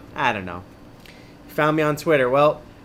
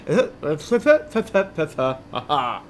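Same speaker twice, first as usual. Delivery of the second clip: flubbed-line splutter; 3 semitones higher than usual. Real, not acted. Flubs the line, makes noise.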